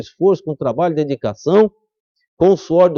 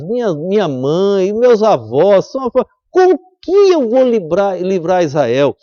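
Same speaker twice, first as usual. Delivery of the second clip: pleading Gideon. Acted.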